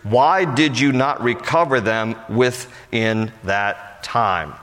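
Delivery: formal Bible reading voice; scripture reading. Acted. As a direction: read the passage aloud to the congregation. Reads scripture aloud before explaining.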